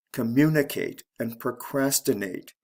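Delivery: "Communicate", "procrastinate" as co-MU-nicate, pro-CRAS-tinate; stress on second syllable. Shown as a demonstration. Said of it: "is actually the second".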